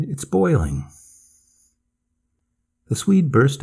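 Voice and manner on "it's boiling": understated narrated cry. A narrator's reading. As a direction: call a warning in a raised pitch. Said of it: "I cried".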